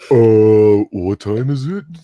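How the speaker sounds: very loud, goofy cartoon doofus voice. Guessing how a colleague would impersonate them, in a cartoonish doofus voice. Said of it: "the cartoonish doofus voice".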